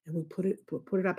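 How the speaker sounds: soft whisper voice. Shown as a demonstration. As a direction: whisper it like a secret. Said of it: "we whisper".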